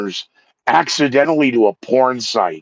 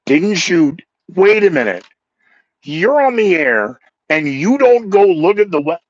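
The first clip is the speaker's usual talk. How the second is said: mild mock yelling; 7 semitones higher, 4 dB louder than usual. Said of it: "And then the yelling of".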